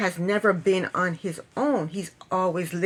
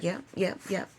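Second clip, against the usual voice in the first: soft, innocent little yeahs; sweet and innocent; 2 semitones lower, 9 dB quieter than usual. Retold or imitated. Mimicking her innocent yeahs to the scolding stepfather. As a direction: murmur along like butter wouldn't melt. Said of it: "she acted all sweet and innocent".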